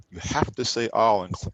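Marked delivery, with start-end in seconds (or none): 0.9-1.2 "Al" as one syllable ending on the L; closed syllable. Shown as a demonstration. Teacher showing the required word, closed one-syllable pronunciation. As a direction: say "Al" as AHL, shut on the L. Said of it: "close the syllable".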